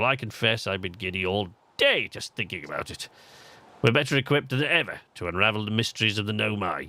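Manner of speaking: lightly acted English accent; a touch of English-accented character voice. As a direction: read it as an English game character. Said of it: "why he has an English accent".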